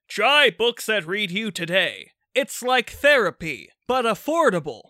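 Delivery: ad read. Acted. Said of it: "give us an ad".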